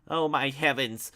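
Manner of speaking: loud, slow gasp of shock; shocked shout from the parlor; shouted exclamation. Acted. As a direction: cry it out in horror. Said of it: "a voice shouted from the parlor".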